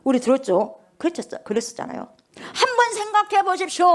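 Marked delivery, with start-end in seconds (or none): 2.5-3.8 a touch of high, confident challenge; bold apostle. Retold or imitated. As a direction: dare them to think it over. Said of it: "장로들 앞에서 하는 거요".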